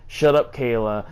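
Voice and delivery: quoting him curtly; half-hearted imitation of an angry boyfriend; retold angry snap. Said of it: "She was getting mad too".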